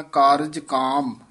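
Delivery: ਕਾਰਜ ਕਾਮ said slowly, then a full stop after ਕਾਮ; pause demo. Shown as a demonstration. Teacher showing where the pause falls, slowly. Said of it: "ਇਹ ਵਿਸਰਾਮ ਧਿਆਨ ਨਾਲ ਲਾਉਣਾ ਹੈ".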